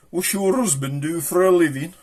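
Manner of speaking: high, lightly voiced gossip; woman in conversation. One sister asks the other, high chatty voice. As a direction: put a curious lilt on the question. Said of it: "two women talking the other day".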